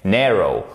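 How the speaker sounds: low falling NARROW, weight on the first syllable; stress on first syllable. Shown as a demonstration. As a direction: NARROW with strong NAR, falling away. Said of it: "Ici, c'est la première".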